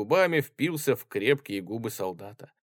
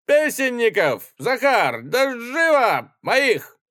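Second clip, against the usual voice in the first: high, loud, slow bellowed command; shouted order; 14 semitones higher, 8 dB louder, slower than usual. Acted. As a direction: call for the singers. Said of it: "как он крикнул". (громкий приказ позвать песенников)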